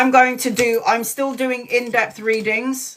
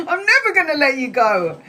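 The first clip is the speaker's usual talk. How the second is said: clingy; 5 semitones higher, faster than usual. Retold or imitated. Clinging to dead friend, retold.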